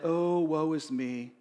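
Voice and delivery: low, soft put-on poor-me voice; mock self-pity. Preacher imitating a victim begging for pity, mock self-pity. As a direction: play the victim, drawing out the opening lament. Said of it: "he never played the victim".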